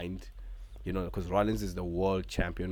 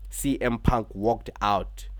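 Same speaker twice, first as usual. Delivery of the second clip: hyped announcer; 2 semitones higher, 6 dB louder than usual. Acted. Vlogger recapping the show, mock wrestling announcer build-up. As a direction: build it up like a big arena reveal.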